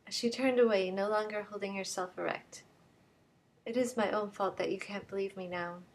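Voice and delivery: Brigid, caught out, still pleading; chastened femme fatale. Acted. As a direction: admit it, still begging, then deflate. Brigid answers, then subdued.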